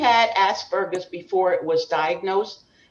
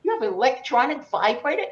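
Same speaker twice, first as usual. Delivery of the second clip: much higher and fast, amazed; high astonished voice; 8 semitones higher, faster than usual. Retold or imitated. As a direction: squeal in mock disbelief at the girls. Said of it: "But I said".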